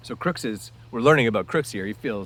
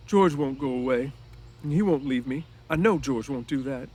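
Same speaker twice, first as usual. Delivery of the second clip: a touch of misery, voice set higher; lightly voiced, unhappy Lenny insisting; miserable; 5 semitones higher, 5 dB louder than usual. Lenny insists to Crooks that George won't leave, a touch miserable. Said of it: "Lenny said miserably".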